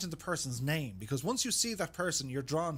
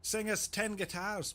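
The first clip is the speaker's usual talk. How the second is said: Billy Connolly; 5 semitones higher, slower than usual. Retold or imitated. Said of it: "Billy Connolly".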